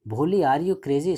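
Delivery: father shouting at his daughter; shouted. Retold or imitated. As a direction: yell at her in disbelief. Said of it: "shouted Ramlal".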